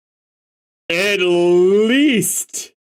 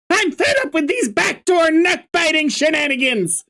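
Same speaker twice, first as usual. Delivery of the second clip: Suction Cup Man impression; 12 semitones higher than usual. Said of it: "my awful impression of Suction Cup Man".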